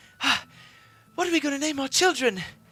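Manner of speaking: put-on very high kid voice, bursting with eager excitement. Voicing a kid who greets an approaching player: eager kid character. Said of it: "just waiting for you eagerly".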